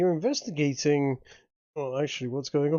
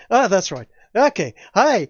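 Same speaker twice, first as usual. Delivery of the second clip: loud, higher-pitched try at Irish; attempted Irish accent; 4 semitones higher, 6 dB louder than usual. Shown as a demonstration. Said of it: "my Irish, my Irish accent".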